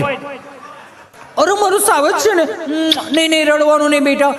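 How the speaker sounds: high-pitched, doting coo; soothing mother. Acted. Mother telling her son not to cry, high soothing voice.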